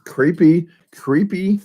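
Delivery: high, eerie creepy whisper-like sing-song; creepy milkman voice. Shown as a demonstration. Vlogger trying a creepy milkman voice, high and eerie. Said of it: "kinda like the milkman voice".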